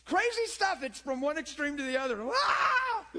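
high, loud laughing exclaim; loud laughter. Real, not acted. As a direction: burst out laughing at the absurdity.

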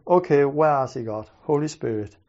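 low, hushed plea to God; searching in the cold dark, softly asking God; quiet prayer. Retold or imitated. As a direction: murmur the question to the Holy Spirit. Praying while searching.

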